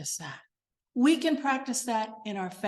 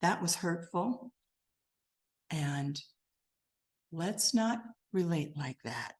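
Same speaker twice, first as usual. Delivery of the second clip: calm gentle; 5 semitones lower, 5 dB quieter than usual. Retold or imitated. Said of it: "Instead, it's".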